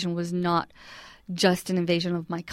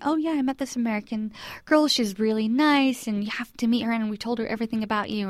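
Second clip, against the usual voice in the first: higher, lightly acted enthusiasm; retold gushing in a raised pitch; eager friend, imitated; 4 semitones higher than usual. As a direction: gently play a friend urging a meeting. Retold friend eagerly urging a meeting.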